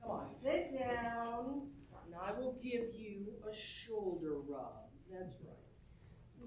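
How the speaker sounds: calm him down gently; soothing. Acted. Wife soothing her bossy husband with a shoulder rub, tender.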